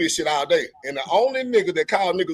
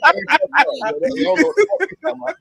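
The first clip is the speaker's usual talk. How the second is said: loud protest; 9 semitones higher than usual. Real, not acted. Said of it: "I'm loud like a motherfucker".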